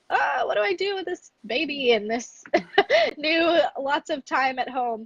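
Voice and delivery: high, laughing imitation of a frazzled mom; overwhelmed new mom. Coach mimics overwhelmed new moms, high and laughing. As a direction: play the mom lost with a new baby, laughing. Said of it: "those moms that are like".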